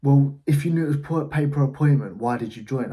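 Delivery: mock aggressive salesman. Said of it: "he started getting a bit aggressive".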